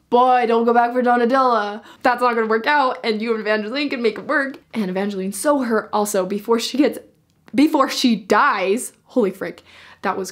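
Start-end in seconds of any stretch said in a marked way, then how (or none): 0.1-4.6 exasperated fan plea. Retold or imitated. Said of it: "Which I'm like".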